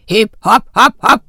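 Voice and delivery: høj, rytmisk trylleremse; udråb remsen med kraft. A narrator's reading. Drage fremsiger trylleremse. (kraftfuldt fremsagt besværgelse)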